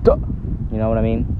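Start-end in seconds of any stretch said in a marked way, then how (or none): 0.0-0.2 short, high burst on duh; taken-aback interjection. Acted. Someone just told they were ugly, abrupt mock shock. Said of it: "you were ugly, you'd be like".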